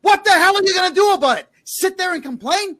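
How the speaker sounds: high, loud, fast furious yell; angry yell. Real, not acted. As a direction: blast the parents, furious. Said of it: "Now I'm gonna yell at you for this".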